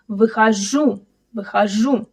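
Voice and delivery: "Выхожу" stressed on the final -жу; last-syllable stress. Shown as a demonstration. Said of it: "The stress is on the last syllable".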